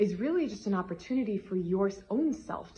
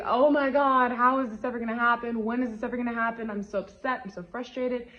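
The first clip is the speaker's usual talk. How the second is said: frustrated venting; 4 semitones higher, 4 dB louder than usual. Retold or imitated. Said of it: "you're feeling frustrated".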